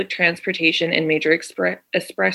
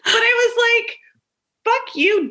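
laughing while talking. Real, not acted.

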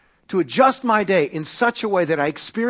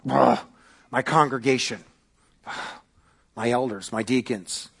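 frustrated groan; 4 semitones lower than usual. Retold or imitated. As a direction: sigh out the complaint. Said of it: "he was frustrated".

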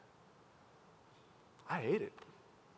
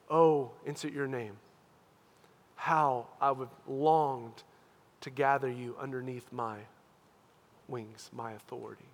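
tearful, longing Jesus; 6 semitones lower, 5 dB quieter than usual. Acted. Jesus calling the listener under his wings, tearful longing. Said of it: "Can you see his tears on your behalf?".

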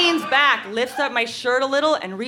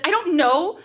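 put-on defensive teen; 5 semitones higher than usual. Acted teenage quarrel with boyfriend.

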